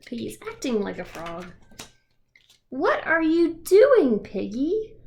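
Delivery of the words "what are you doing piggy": puzzled question. Acted. Gerald questions Piggy.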